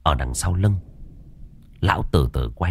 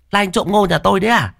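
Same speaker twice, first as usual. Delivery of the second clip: much higher suspicious question; high woman's voice; 12 semitones higher, faster than usual. Acted. Farm woman questions the strange man, high voice. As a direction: challenge the stranger sharply.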